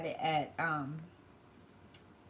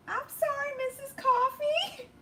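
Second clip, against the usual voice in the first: crying; 5 dB louder than usual. Real, not acted. Apologising while crying.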